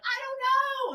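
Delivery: very high, small meek voice; meek little voice. Retold or imitated. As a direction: squeak it out timidly. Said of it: "And she's like".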